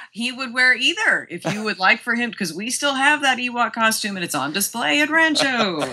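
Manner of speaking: laughing through the words; chuckling while explaining. Real, not acted. Guest laughs about the Ewok costume, laughing.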